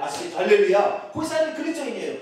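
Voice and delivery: ordinary talk, nothing marked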